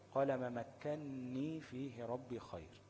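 measured tajweed reading of مكني; slow recitation. Shown as a demonstration. Teacher recites the second example slowly. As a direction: recite the verse slowly and clearly. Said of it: "أصل كلمة مكني إيه".

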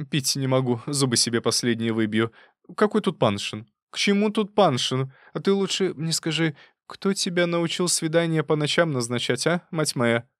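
put-on old aunt scolding, barely able to speak; outraged old aunt. A narrator's reading. Марфа Тимофеевна допрашивает Лизу. (возмущённая старуха, выше голосом, задыхаясь)

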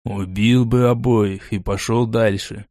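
slow, low and level; flat matter-of-fact calm; even. Acted. Foger explaining the danger to Lona, slow and even. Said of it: "Так же ровно ответил Фогер".

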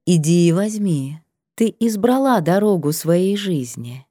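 gentle but firm divine command; goddess voice. Acted. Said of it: "нежный голос богини строг и ясен".

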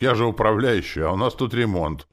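high, loud self-defence; loud protest. A narrator's reading. Orc justifies himself to boss.

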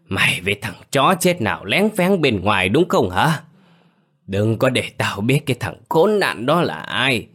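ghen tuông gào lên, cao và to; dọa giết, giọng hung hăng; giận dữ quát. Acted. (quát tháo giận dữ)

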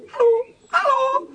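laut und hoch hinüberrufen; lautes Rufen. Acted. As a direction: ruf die Tauben von weitem herbei. Pumuckl ruft die Tauben. (lautes Herbeirufen)

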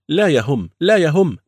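loud, high brush-off; dismissive. Acted. Gang dismissing protest.

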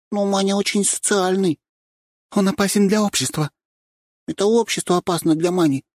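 put-on high back-and-forth between two young women; girls bickering. A narrator's reading. Two girls arguing about the rooster, lightly voiced high bickering. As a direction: trade quick jabs.

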